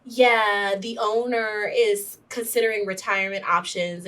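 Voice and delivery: bad-news delivery. Property manager delivering bad news, retold.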